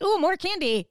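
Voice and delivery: high, loud delighted ooh; excited kid. Retold or imitated. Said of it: "they're like".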